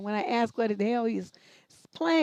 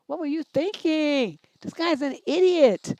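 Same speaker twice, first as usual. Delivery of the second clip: slow, disbelieving and louder; exasperated; 5 semitones higher, 4 dB louder, slower than usual. Real, not acted. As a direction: drag it out in disbelief. Host reacts to letter, exasperated.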